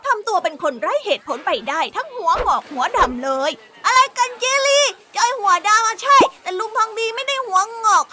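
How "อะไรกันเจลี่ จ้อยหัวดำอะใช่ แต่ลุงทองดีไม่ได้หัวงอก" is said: put-on a boy protesting to his grumpy uncle; cheeky young boy. Joy answers Jeli. (เสียงเด็กผู้ชายโวยวาย)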